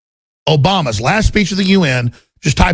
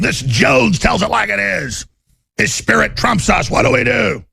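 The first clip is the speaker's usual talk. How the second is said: high, slow, shouted mock panic; 5 semitones higher than usual. Host voicing scared elites, shouting high and slow. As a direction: play the elites losing their nerve. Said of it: "they're all just panicking".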